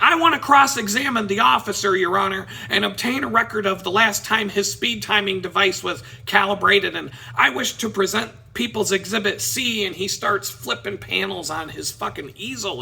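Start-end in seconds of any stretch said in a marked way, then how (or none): 0.0-9.8 louder, insistent courtroom challenge; imitating a man arguing in court; arguing with the judge. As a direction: press the case like an amateur lawyer, loudly. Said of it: "he starts arguing with the judge".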